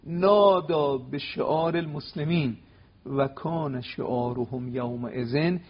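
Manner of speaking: slow, deliberate Arabic quotation; solemn reading. Shown as a demonstration. Scholar reading the battle cry from the book, slow and solemn. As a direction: read the source word by word, weighty.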